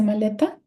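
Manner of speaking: "maleta" stressed on the middle syllable, LE, questioning. Shown as a demonstration. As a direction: lean on LE in "maleta" and ask.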